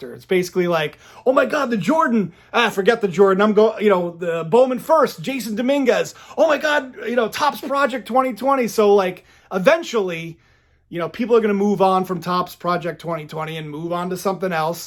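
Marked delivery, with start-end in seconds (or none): 1.3-8.7 gushing, eager, excited voice, pitched up. Showing an impression of a card collector jumping between hot cards: imitating an excited card collector. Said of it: "impression of a, of a collector".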